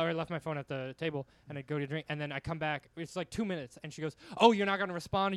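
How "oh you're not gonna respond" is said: louder, higher mock outrage; imitated angry texter. Comic reading out her angry message, mock indignant. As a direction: demand it like an offended texter.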